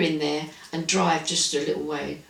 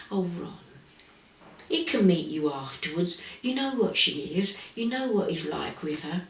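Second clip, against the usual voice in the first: softly voiced, mildly pleading mum; lightly acted, hushed appeal; placating mother; 2 semitones lower, 6 dB quieter than usual. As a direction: retell it quietly, as a mother gently reasoning with her son. Retold mother placating her complaining son.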